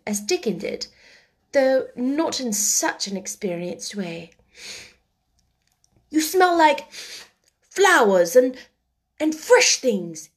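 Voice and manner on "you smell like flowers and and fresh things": put-on higher, louder, joyful boy; a sick boy suddenly delighted; joyous cry. A narrator's reading. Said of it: "he cried out quite joyously".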